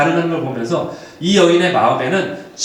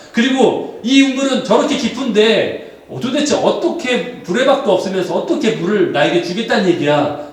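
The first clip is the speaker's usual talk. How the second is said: acted indignant retort, raised pitch; snapping back; 2 semitones higher than usual. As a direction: fire back in disbelief, drawing out the complaints. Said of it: "계속 쏘아붙입니다".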